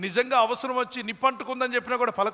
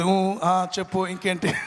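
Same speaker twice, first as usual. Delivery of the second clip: recorded phone playback; slower than usual. Retold or imitated. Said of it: "ముందే cell ఫోన్లో record చేసి".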